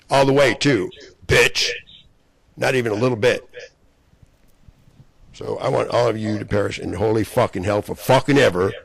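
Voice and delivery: real rage, shouting threats at his enemies; furious yelling. Real, not acted. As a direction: spit every curse at them. Furious cursing rant at enemies.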